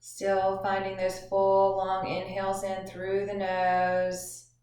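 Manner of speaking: measured instructions with long pauses; guided meditation. Acted. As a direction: guide listeners gently through breathing, drawing out phrase endings.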